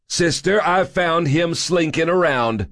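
high, drawn-out pompous report; officious little man, voice pitched high; self-important. A narrator's reading. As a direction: announce it slowly like a puffed-up majordomo. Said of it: "infused with the kind of self-importance".

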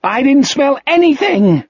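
high cracking yell; shout, voice breaking. A narrator's reading. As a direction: scream it until the voice breaks. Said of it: "Jack shouted. His voice broke".

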